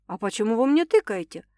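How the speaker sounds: ordinary delivery, nothing marked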